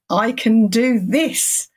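slow, "do" stressed, tune rising at the end. Shown as a demonstration. Mantra to yourself in the mirror, rising on "do". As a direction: lift "do" up like a rallying cry. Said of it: "you put different emphasis on the different words".

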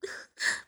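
short breathy giggle. Acted. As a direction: burst into a laugh. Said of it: "忍不住笑了起来". (忍不住轻笑)

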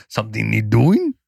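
gruff grunt asking for orders; a dutiful orc worker ready to work; orc peon voice. Pretend. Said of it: "Zug Zug".

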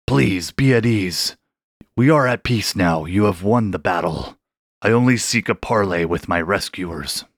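put-on a huge old shark reassuring his rescuers; calm ancient shark. Shark character speaks.

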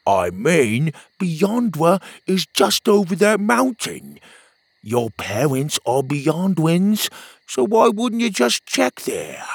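pep up a gloomy buddy; upbeat friend. Acted. Petey cheering up Pockets, bright friend voice.

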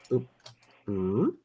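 quiet "oop oop" sound effect; a little popping noise for moving pieces; movement noise. Acted. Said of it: "I always like making noises for movement".

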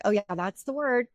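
understated, easy retold agreement; recognizing. Daughter recognizing her mom's word, mildly agreeing. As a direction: agree lightly in an everyday voice.

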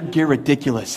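"Ghirridiculous" with a hard g, gear-idiculous; playful hard-g opening on "Ghirridiculous"; punning mock correction. Pastor retorting to his correctors, punning "Ghirridiculous". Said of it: "No, it's Ghirardelli".

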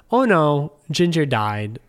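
emphatic, sympathetic "oh no"; sorry, nice. Retold or imitated. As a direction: break bad news kindly, with a loud opening. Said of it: "sorry, like, nice, like".

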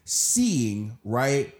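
upset, insistent demand; real upset. Real, not acted. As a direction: press the question with real frustration. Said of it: "I'm getting so upset".

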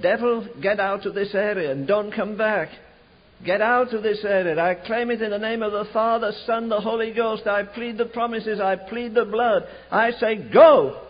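building from firm to a loud final shout; preacher reenacting an exorcism, building to a shout; commanding rebuke. Casting out the devil.

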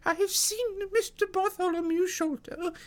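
put-on very high, loud old woman; alarmed housekeeper. A narrator's reading. Housekeeper urges Mister Thaddeus upstairs, high alarmed voice.

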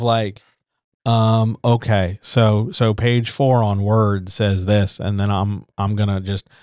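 hesitant, stop-start imitation of an amateur; mock unprepared narrator. Voice coach mocking someone who just reads their book, halting. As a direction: lightly act out fumbling through a script.

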